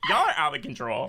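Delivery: mock-scold your friends while laughing; amused exasperation. Acts exasperated reaction, laughing.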